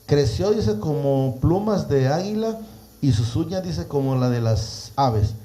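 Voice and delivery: slow, drawn-out Bible reading; preacher reading a verse with emphasis; scripture reading. Acted. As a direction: stretch each image as you read it out. Reads scripture aloud to listeners.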